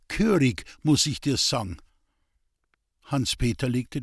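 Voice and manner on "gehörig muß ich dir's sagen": screwed-up voice. Acted. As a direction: wind the voice up like a mock scold. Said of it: "schraubte die Stimme".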